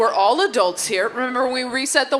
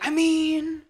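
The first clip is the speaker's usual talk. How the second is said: dreamy smitten dude; 5 semitones higher, slower than usual. Acted. Guys gushing about a girl.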